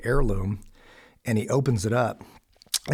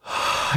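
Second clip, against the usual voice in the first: retold sigh of bewilderment; heavy sigh. Man recalls being told to be himself, bewildered sigh. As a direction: let out a big breath, reliving the moment.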